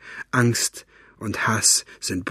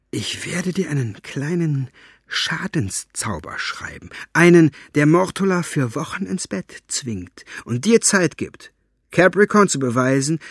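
put-on sly tempting old man; 6 semitones higher than usual. Fenoglio tempting.

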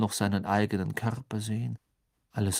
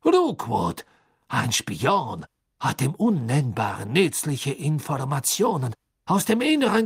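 high, loud, slow and nervous; a desperate prisoner pleading; anxious; 4 semitones higher, 5 dB louder than usual. A narrator's reading. Karkaroff names names under pressure.

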